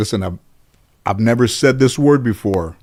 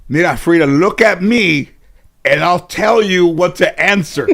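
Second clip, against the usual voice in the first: grandmother coaching; 7 semitones higher, 4 dB louder than usual. Retold or imitated. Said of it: "My grandmother said".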